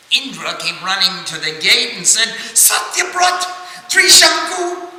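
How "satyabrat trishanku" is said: higher, louder commanding voice; stern rebuke. Acted. Indra orders Satyabrat back to earth, stern shout. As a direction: drive the outcast back down. Indra turns him away.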